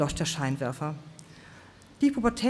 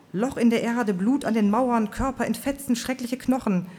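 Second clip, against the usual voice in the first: higher, breathless calling out; breathless outcry; 6 semitones higher than usual. Acted. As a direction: blurt the horrors, pitched up and urgent. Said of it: "rief die Frau mit rosa Hut atemlos dazwischen".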